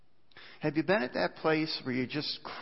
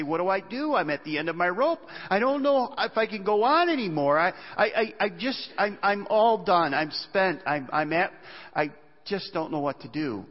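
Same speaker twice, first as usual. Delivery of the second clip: desperate listener; 4 semitones higher, 3 dB louder than usual. Acted. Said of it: "You say".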